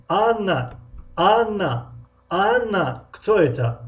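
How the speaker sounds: Анна drawn out at the start; stretched first word. Shown as a demonstration. Teacher repeating the example for students, stretched start. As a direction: lengthen Анна, keep the rest short. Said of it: "аввалро мекашем".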